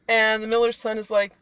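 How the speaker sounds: plain reading voice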